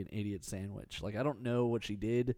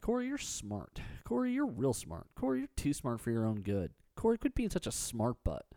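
mock admiring voice; people praising Corey. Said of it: "People my whole life have been like".

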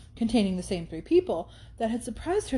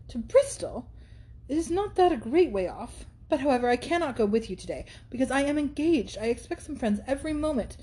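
put-on anxious young heroine; 4 semitones higher than usual. Catherine protests she is engaged.

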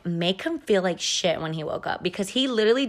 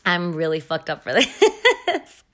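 giggling through it, slowed down; laughing; slower than usual. Real, not acted. Confessing a prank to listeners, laughing.

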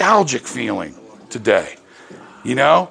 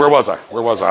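blanking on lines; 4 semitones lower than usual. Real, not acted. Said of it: "I lost my, lost my place".

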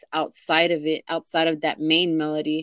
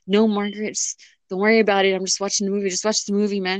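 higher-pitched mock brush-off; retold defensive denial; 3 semitones higher than usual. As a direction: playfully act out waving away a nosy kid. Retold brushing off daughter while crying.

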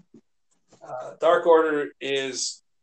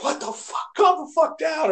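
mock yell; 11 semitones higher than usual. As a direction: yell it like an angry wrestler breaking up a fight. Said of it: "and he's like".

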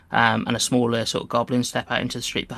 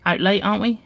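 sly hobgoblin; 8 semitones higher than usual. Acted. GM voices hobgoblin greeting.

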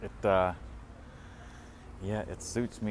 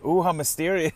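mock intrigue; 10 semitones higher, 7 dB louder than usual. Real, not acted. Teasing reaction to strange message.

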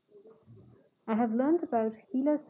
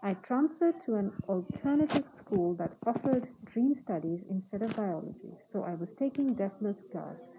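muffled speech behind a mask; talking while wearing a face mask; through a face mask. Real, not acted. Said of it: "am using a mask right now as I record this podcast".

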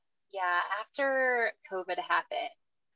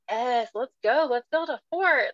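bright, louder, higher burst of mock enthusiasm; like a fun mom jumping at the chance; eager mom; 4 semitones higher, 7 dB louder than usual. Mother answering her kid's call to play, eagerly excited. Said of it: "the mom who's like".

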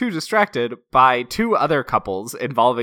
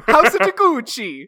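mock Italian accent; 13 semitones higher, 4 dB louder than usual. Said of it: "when I make fun of saying".

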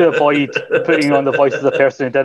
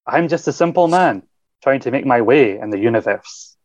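a hint of a plummy Matt Berry read; lightly voiced Matt Berry, grand and measured; Matt Berry impression. Shown as a demonstration. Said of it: "my best Matt Berry impression".

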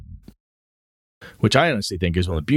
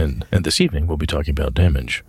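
low, measured radio host; public radio host; 6 semitones lower than usual. Retold or imitated. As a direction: introduce it like an evening broadcast. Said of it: "public radio voice".

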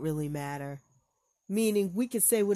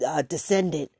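heated; 5 dB louder than usual. Real, not acted. Heated rant over clip.

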